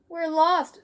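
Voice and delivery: put-on high loud worried kid; alarmed. Arthur lost in the woods, high worried voice. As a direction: sound alarmed.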